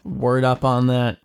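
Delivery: slow laid-back dude voice; nineties slang. Pretend. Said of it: "Why did I say word up".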